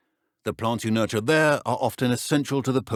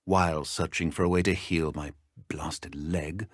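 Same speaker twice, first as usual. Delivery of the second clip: softer, breathy muttered complaint; whispered aside; 4 semitones lower, 5 dB quieter than usual. Real, not acted. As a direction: grumble it under your breath. Bitter aside about his injury.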